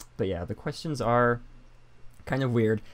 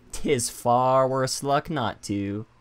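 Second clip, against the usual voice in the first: pirate voice; slower than usual. Acted. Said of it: "I will roll with it".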